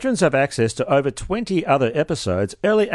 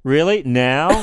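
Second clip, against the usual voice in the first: flat disbelieving "Really? Now?"; incredulous; slower than usual. Shown as a demonstration. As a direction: ask it doubtfully. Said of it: "You gotta go".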